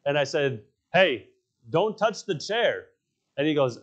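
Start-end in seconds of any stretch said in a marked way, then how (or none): 0.9-2.9 retold scolding. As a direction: call out a retold warning to a pupil. Teacher scolds chair-kicking kid.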